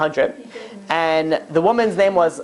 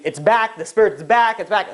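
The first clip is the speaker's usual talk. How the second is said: higher-pitched retold cry of alarm; mock screaming; 6 semitones higher than usual. Two women screaming to the innkeeper about the spirit, mock screaming. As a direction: imitate two frightened people crying out, only half-screamed. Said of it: "they're both screaming".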